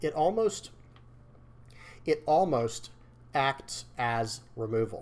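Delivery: very slow, deliberate, drawn out word by word. A game commentator works through a hard-to-say phrase, very slowly. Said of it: "I had to say that very slowly".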